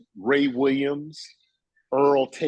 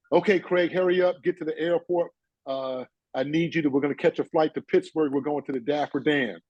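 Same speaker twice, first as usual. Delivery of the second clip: mildly urgent, higher-pitched phone voice; lightly acted hurried caller giving orders; Rodney Parker; 5 semitones higher than usual. Mentor phoning to rush him to the airport, mildly urgent imitation. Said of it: "another crazy phone call from Rodney".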